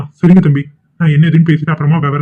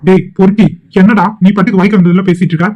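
angry insult; 3 semitones higher than usual. Acted. Insults the suitor in a quarrel.

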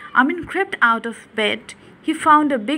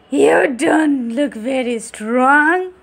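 mocking ghoul; 3 semitones higher, 5 dB louder, slower than usual.

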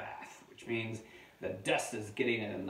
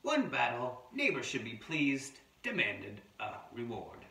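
amateur Australian wombat narrator; attempted Australian accent; 5 semitones higher, 4 dB louder than usual. Adult reading a wombat's diary to children, pretend Australian accent. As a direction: read the terse diary in a makeshift Australian voice. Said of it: "I'm trying to do my Australian voice".

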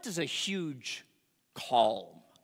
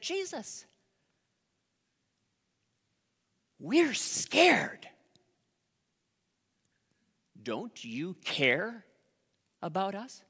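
frightened plea; slower than usual. Acted. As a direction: beg him like terrified sailors. Disciples pleading with sleeping Jesus.

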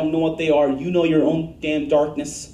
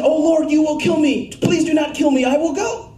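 mock pleading Moses; 9 semitones higher, 4 dB louder than usual.

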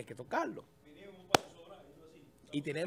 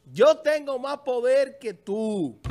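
villain boast; 4 semitones higher, 6 dB louder, slower than usual. Retold or imitated.

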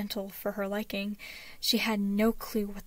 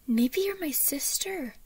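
put-on high, louder, drawn-out child voice; excited little boy; 6 semitones higher, 5 dB louder than usual. A narrator's reading. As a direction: burst out with a child's wonder.

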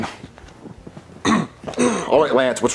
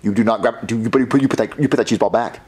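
stern warning; 6 semitones lower than usual. Acted. Father warns son off cheese balls.

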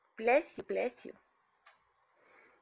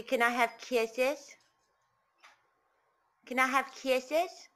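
slow coaxing demo; 3 dB louder, slower than usual. Shown as a demonstration.

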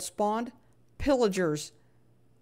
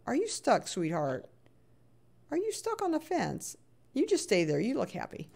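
swooping, sweet pet talk; cooing concern; 4 semitones higher than usual. Real, not acted. Talking to an animal stuck on a fence, cooing concern. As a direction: coo it with a high lilt.

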